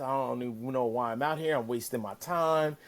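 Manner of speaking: mock whining. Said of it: "he's now bitching and complaining".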